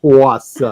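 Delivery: "Haas" said loudly as "Hoss", amused; pronunciation demo. Shown as a demonstration. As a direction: belt out "Haas" to show how it goes, near laughter. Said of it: "How do you say it?".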